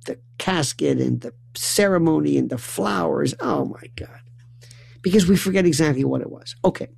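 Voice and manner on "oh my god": whisper. Real, not acted. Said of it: "whispered exclamation".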